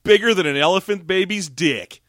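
loud show-off boast in a new silly voice; comedy voice for the camel guy; desert guy's third voice. Retold or imitated. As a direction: brag like a proud hammed-up desert stranger. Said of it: "he says in the third voice of that guy".

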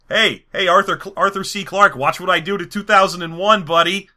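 cocky taunt in a lightly put-on voice; a hint of a swaggering director; Kubrick. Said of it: "He was like, he was like".

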